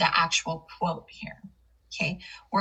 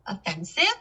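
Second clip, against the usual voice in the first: OFFENSIVE lifting up at the end; rising question intonation. Shown as a demonstration. Teacher repeats the last word to demonstrate, rising intonation. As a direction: ask OFFENSIVE with a rising tail. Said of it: "it's an intonation that goes up".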